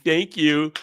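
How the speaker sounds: mocking a grateful fan. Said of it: "if you come back saying".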